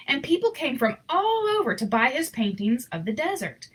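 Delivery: gentle read-aloud storyteller voice; story narration. A narrator's reading. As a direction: read it like a bedtime picture book. Reading picture book aloud.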